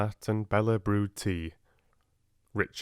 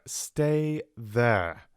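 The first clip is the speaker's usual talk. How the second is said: a touch of urgency; urgent repeat down the phone; 4 semitones higher, 3 dB louder than usual. Acted. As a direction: repeat it, pressing. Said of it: "he said urgently".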